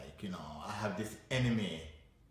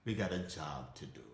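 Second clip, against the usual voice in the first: lower, softer, steady coaxing; reassuring coaxing; 6 semitones lower, 5 dB quieter than usual. Acted. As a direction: calmly take someone along by the hand. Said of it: "you hold fear by the hand".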